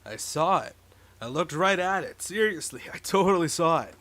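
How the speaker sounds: excited stoner insisting; hyped-up laid-back stoner. Acted. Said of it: "somewhat of a stoner voice".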